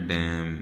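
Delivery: "डैम" ending on a held m; silent final N. Shown as a demonstration. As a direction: say "डैम" for damn with no n after the m. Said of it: "एन silent हो जाएगा".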